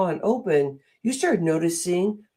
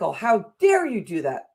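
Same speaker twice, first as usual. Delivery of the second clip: mock scolding; 3 semitones higher than usual. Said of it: "That's what I heard all my life".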